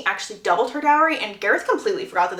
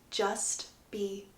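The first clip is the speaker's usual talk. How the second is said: hushed; 3 semitones lower, 13 dB quieter, much slower than usual. Acted. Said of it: "Gareth goes".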